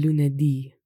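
"lunedì" stressed on the last I; final stress. Shown as a demonstration. Teacher shows written accents, stress on the I. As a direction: push the closing syllable of "lunedì". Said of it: "which has the accent on the I".

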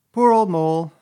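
high, loud, kindly sympathy. A narrator's reading. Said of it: "said the rat kindly".

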